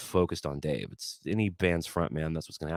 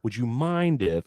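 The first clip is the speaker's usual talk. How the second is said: slow, syrupy over-polite ask; mock super-nice; 4 semitones higher, slower than usual. Fan mocking his own overly polite request, slow and syrupy. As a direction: lay on the politeness thick. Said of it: "wasting my time being super nice".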